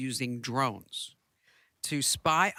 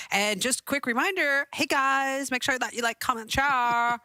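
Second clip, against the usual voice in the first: hyped youtuber voice; 3 semitones higher than usual. Pretend. Host mocking a teen youtuber's hyped sign-on. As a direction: pump it up like a teen streamer. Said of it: "Imagine if I actually spoke like that".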